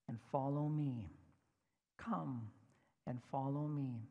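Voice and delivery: a hint of a tender, solemn teacher; gentle Jesus. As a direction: speak the invitation gently. Jesus gives the hard answer.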